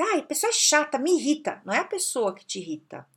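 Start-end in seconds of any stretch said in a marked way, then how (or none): 0.0-1.6 mock annoyed whine. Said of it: "a gente fala assim".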